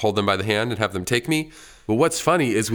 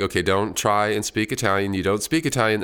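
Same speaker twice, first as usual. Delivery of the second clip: plain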